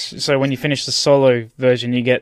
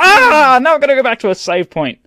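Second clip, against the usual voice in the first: frustrated; 10 semitones higher, 6 dB louder than usual. Retold or imitated. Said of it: "and it's like".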